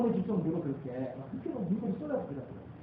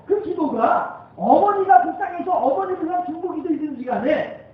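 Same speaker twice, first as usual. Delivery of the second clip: higher, louder, building sermon cry; full-force preaching; 8 semitones higher, 6 dB louder than usual. Acted. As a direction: drive the point home to the pews.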